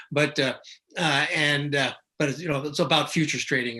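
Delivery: usual speaking voice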